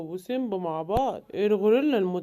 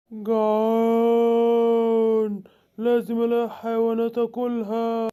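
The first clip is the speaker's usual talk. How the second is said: hungry gorilla growl; slower than usual. Acted.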